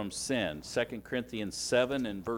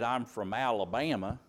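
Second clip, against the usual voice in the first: mock-Southern accent, lightly done. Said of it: "I did my southern accent".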